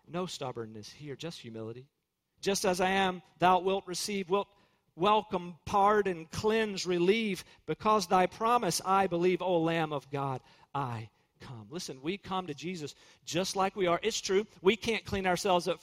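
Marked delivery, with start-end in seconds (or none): 2.4-11.7 slow, reverent hymn recitation. Acted. Preacher reciting the hymn to his congregation, slow and reverent. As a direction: recite the hymn line by line, devoutly.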